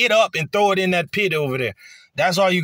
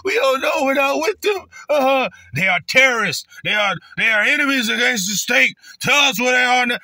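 cursing them out; 7 semitones higher than usual. Retold or imitated. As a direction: shout like a hostile enforcer demanding names. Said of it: "They gonna be cursing our people out".

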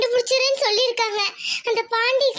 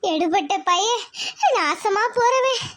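tearful lament. Acted. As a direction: wail brokenly between sobs. Robbed mother weeps and curses. (அழுது புலம்பும் குரல்)

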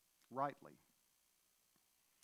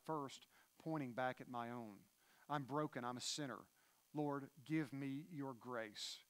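humble confession. Retold or imitated. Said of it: "the man that is spiritually impoverished would say this".

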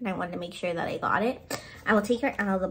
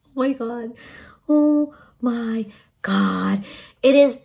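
excited gush; 3 semitones higher, 6 dB louder, slower than usual. Real, not acted. Unboxing her grail pop.

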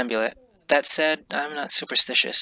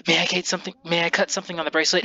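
put-on eager kid voice; 5 semitones higher, much faster than usual. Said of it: "I apologize for my terrible voice acting".

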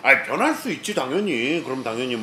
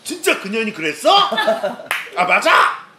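high, mock-scandalized questions; pretend outraged disbelief; 6 semitones higher, 4 dB louder than usual. Streamer reacting to a made-up tattletale whisper, feigned outrage. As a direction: play shocked at a secret tip-off. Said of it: "귓속말로 누가 고자질했다는 듯이".

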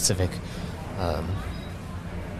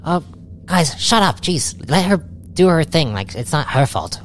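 exasperated Clive; 8 semitones higher than usual. Acted. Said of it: "And Clive is like".

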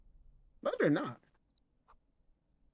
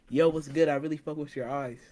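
rambled out; 4 semitones lower, 4 dB quieter than usual. Pretend. Friend practising pickup line for coach, run together. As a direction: run together without spaces. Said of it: "add some space to your words".

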